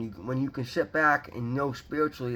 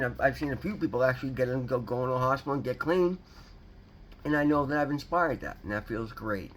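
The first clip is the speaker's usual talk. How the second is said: talking around a loose denture plate; 2 semitones lower than usual. Real, not acted. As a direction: speak as if the lower plate slips. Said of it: "the lower plate is moving around".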